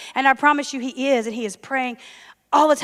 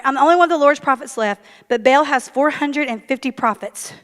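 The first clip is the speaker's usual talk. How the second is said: bolder, faster re-read. Shown as a demonstration. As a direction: read it again with fire. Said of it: "All right".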